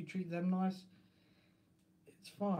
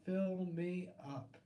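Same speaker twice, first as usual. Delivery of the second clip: slow, softer Fill me up; slow drawn out; 4 dB quieter, slower than usual. Shown as a demonstration. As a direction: Fill said slowly, stretched and softer. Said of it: "That's for sure".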